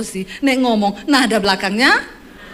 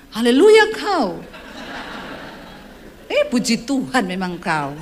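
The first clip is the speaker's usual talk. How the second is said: mock church quarrel; slower than usual. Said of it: "pasti kalau mau berantem".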